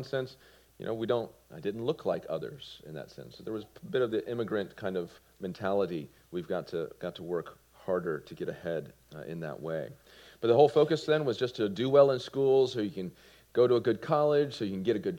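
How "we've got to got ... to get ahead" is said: ordinary delivery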